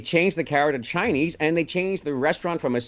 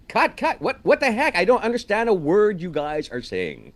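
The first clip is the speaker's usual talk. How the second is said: high, incredulous cry of cut, with a laugh; exasperated director; 6 semitones higher than usual. Retold or imitated. Director halting the scene in disbelief, high incredulous cry. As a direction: stop the take in disbelief.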